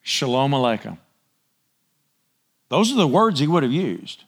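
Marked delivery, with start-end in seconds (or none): 0.0-1.0 Jesus greeting. Retold or imitated. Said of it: "this is what he would have said".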